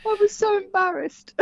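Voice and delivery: laughing, high; giggling through the words. Real, not acted. Laughs at own embarrassment.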